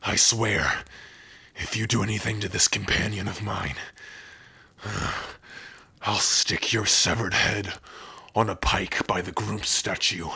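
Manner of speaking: understated bitter vow of revenge; measured, bitter warrior's threat. Acted. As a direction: swear vengeance through simmering resentment. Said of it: "Well, someone sounds bitter".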